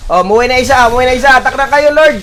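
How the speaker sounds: high-pitched, hurried-on game orders; rally the team to attack; real excited calling to teammates; urgent team callout. Real, not acted.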